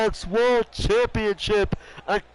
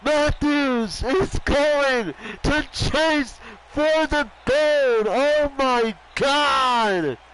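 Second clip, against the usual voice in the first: slow, higher triumphant announcement; drawn-out call; 3 semitones higher, much slower than usual. Real, not acted. Commentator savoring the win, slow and excited. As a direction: stretch every word in awe.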